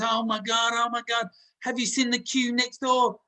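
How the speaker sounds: put-on old barber bursting in about the queue next door, alarmed; alarmed grandfather. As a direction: rush in as a flustered old barber.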